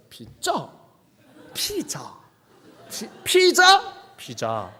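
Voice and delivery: breathy whisper of 피자; whispered pizza. Retold or imitated. Whispering 피자 to a teacher who can't understand. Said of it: "그럼 못 알아듣는 거야".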